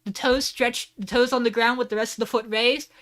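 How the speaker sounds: high, excited presenter, slowing for the climax; hammed-up showman. Host showing off the suplex to the audience, mock showman hype. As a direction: present it grandly like a ringside announcer.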